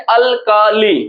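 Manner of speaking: अल्काली in three spaced parts; syllable by syllable. Shown as a demonstration. Teacher counting three syllables, अल्काली split into parts. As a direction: separate अल, का and ली. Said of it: "हम लोग पढ़ते हैं अल्काली".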